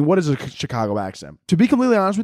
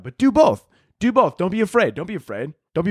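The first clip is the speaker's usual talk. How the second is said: higher, pleading push; urging; 4 semitones higher than usual. Real, not acted. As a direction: nudge listeners, higher and eager. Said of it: "urging listeners to rate".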